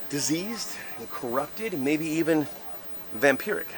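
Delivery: hushed and slow, very soft; spooky ghost tour hush. Acted. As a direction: drop to a creepy near-whisper.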